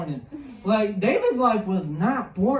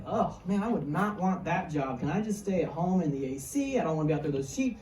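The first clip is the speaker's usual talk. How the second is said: low, muted grumbling; reluctant grumble; 5 semitones lower, 5 dB quieter than usual. Acted. Kid balking at a boring shepherd job, reluctant grumble. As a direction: grumble it quickly under the preacher's usual level.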